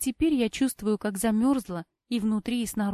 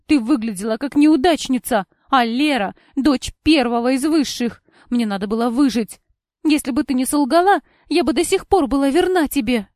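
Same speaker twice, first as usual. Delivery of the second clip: loud, higher angry justification; heated; 4 semitones higher, 10 dB louder than usual. A narrator's reading. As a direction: defend yourself furiously. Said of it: "вскипела Кора".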